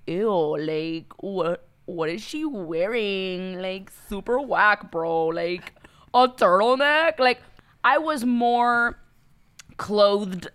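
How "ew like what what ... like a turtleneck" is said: drawn-out mocking disdain; judgmental onlookers. Party-goers judging her turtleneck on South Beach, mock disdain. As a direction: imitate slow, scornful gawkers. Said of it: "looking me up and down like".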